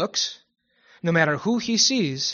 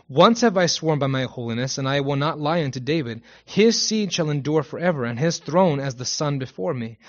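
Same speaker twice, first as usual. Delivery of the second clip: emphatic, formal psalm reading; declaimed Bible verse, key words leaned on; scripture reading; 4 dB louder than usual. Acted. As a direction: proclaim the verse to a congregation. Reads a Psalm aloud.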